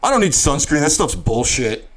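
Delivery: lightly put-on dismissive guy voice; a hint of a cocky guy impression; Havoc. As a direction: brush it off in character. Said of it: "That's my Havoc".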